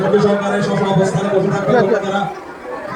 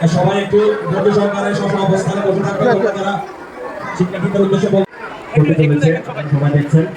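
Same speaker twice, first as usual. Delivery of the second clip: announcer over a PA; echoing public address voice; echoing festival loudspeaker. Real, not acted.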